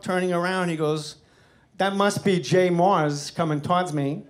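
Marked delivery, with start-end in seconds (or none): 1.8-4.2 slow, lightly done celebrity impression; a hint of a mimicked film star, slowly; Christopher Walken. Actor greets comic without turning round, lightly mimicked drawn-out voice. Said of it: "Christopher Walken's facing the house".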